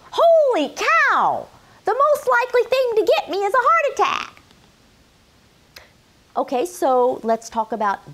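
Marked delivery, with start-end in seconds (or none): 0.1-4.3 high, loud, startled outcry with a rushing finish; mock alarm as a viewer who finally gets it; shocked exclamation. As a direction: gasp it out like a sudden scary realization. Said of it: "should make you say".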